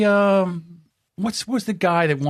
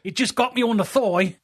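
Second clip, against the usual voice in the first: put-on Australian accent; 3 semitones higher than usual. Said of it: "that was a good Australian accent".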